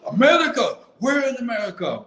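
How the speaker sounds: playful mock parent; surprised parent. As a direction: chirp it out, amazed. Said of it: "It's like".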